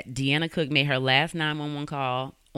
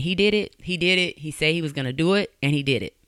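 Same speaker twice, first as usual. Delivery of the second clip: retold screaming; 2 semitones higher, 3 dB louder than usual. Mother who found her daughter, toned-down screamed accusation. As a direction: imitate an anguished outcry without a full scream. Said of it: "she started screaming".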